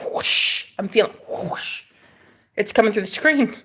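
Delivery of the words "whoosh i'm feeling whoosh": breathy whoosh. Real, not acted. Feeling energy.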